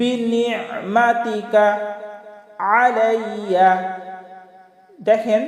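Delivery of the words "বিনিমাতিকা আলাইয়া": long drawn-out chanted recitation; slow Quranic recitation. Shown as a demonstration. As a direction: intone each word slowly and reverently. Recites dua slowly.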